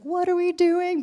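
high, loud and slow mock bafflement; mock a confused worship team; puzzled team. Worship team wondering about the kids song, mock puzzled.

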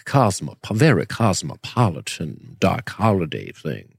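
slow, genteel fake Southern drawl; Doc Holliday drawl. Shown as a demonstration. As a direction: draw it out like a cosmopolitan Southern gentleman. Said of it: "I prefer more of that".

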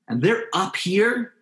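high, stretched-out words. Shown as a demonstration. Teaching parents about a yelling kid, voice pitched high. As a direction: lift the voice up to the kid's level. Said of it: "when a kid is yelling at you".

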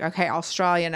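demonstrated Australian pronunciation; Australian accent. Shown as a demonstration. Guest saying the trigger word, Australian accent. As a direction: say it with Australian vowels. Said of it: "Austra-, that's good".

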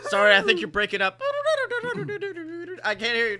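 fake bad phone line. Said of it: "not even the sound of a phone breaking up".

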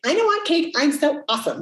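high, sing-song self-congratulation; mock smug. Mocking a smug person at the cake aisle, sing-song. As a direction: ham up a smug, superior brag.

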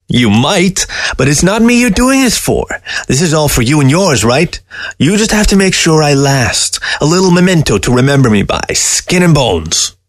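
high, mocking talking-fox voice; a scornful dead fox sneering at the man; sly fox voice. Taxidermy fox scoffing at the old man, high and sly.

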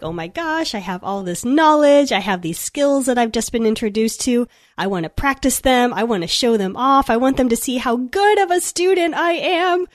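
bright lilting eager-student voice; sing-songy voice. Retold or imitated. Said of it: "that's why it's coming out in that sing-songy voice".

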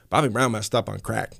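imitating talk from one side of the mouth. Host mimicking the singer on crack, side-mouthed talk. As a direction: say it out of the side of your mouth, lightly mocking. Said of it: "like, that's how he talked".

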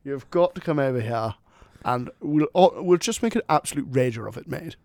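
hammed-up British lad accent; jokey British accent. Co-host gushing an invitation to his friend, jokey British accent. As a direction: ham up your supposed real British accent. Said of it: "This is my real accent".

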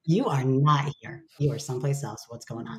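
playful laughing nudge to yourself; playful teasing check-in. Retold or imitated. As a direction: tease a wandering friend back. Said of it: "I'm like".

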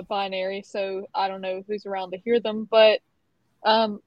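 lightly put-on British accent, pitch jumping up; awkward British character trying to chat. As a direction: play the awkward butler-ish guy with a loose British accent. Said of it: "I'm gonna attempt the accent".

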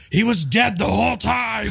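laughing. Real, not acted. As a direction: giggle out the twist. Jokes about Sixth Sense twist.

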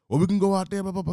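mock tough customer. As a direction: dare him to step outside. Customer challenging again.

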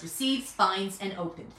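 "receives", "finds" and "open" picked out in a list; stress on receives, finds, open. Shown as a demonstration. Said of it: "we stress the words".

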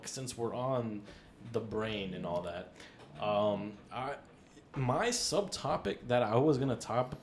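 ordinary talk, nothing marked

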